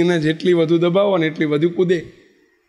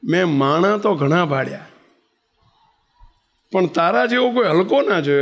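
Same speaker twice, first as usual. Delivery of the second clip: mild mock insult. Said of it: "કેવો શબ્દ વાપર્યો".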